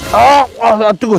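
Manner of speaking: sharp yelps at a scalding bite; burning mouth. Real, not acted. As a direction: yelp as the hot food burns.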